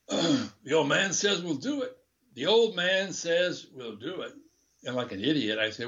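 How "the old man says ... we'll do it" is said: put-on slow, higher-pitched Spanish accent; slow, conspiratorial Spanish-accented report; Miguel's Spanish accent. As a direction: imitate a colleague's heavy Spanish accent. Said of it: "with a heavy Spanish accent".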